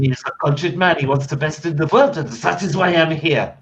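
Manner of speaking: proud French cook in character; French chef. Acted. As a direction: play a cultured French chef.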